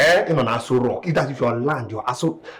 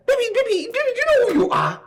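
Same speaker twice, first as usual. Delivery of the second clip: coaxing; faster than usual. Acted. Son sweet-talking girlfriend.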